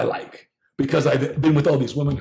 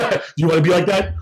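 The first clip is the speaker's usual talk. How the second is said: mother's warning, laughing; 3 semitones higher, 3 dB louder than usual. Retold or imitated. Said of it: "She's like".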